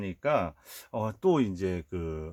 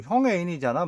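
mild mock anger; 7 semitones higher, 5 dB louder than usual. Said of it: "동생이 화가 났죠".

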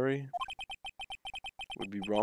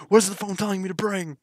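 higher and louder, incredulous; exasperated disbelief; 9 semitones higher, 6 dB louder than usual. Real, not acted. Streamer baffled by the phone prompt, loud disbelief. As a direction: throw the question up in outrage.

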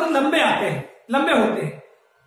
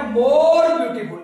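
more beautiful drawn out very slowly, word by word; slow dictation; much slower than usual. Shown as a demonstration. Teacher slowly reading the phrase to students. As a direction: spell it out slowly so the class can read along. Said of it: "क्या लिखा है?".

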